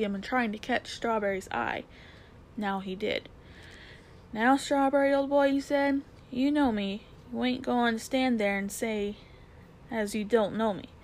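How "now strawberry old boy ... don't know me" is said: London cabby voice. Acted. Cabby coaxing his old horse.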